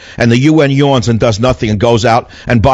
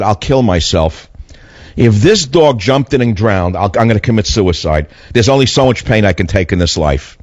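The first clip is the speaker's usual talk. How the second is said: despairing; 3 semitones lower than usual. Retold or imitated. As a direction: say it like you've given up. Retold despair over drowned dog.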